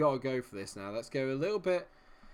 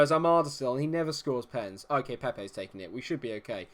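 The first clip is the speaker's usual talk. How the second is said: ordinary talk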